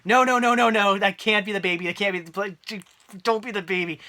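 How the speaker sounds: reliving horror, pleading no; horrified denial. Retold or imitated. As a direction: beg it not to be true. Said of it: "I'm like".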